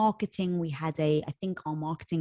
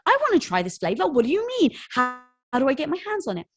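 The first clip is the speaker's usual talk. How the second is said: higher, pleading mock fomo; eager customers; 6 semitones higher, faster than usual. Customers begging to get the flavor, mock eager and higher. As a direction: play the desperate fan who missed out.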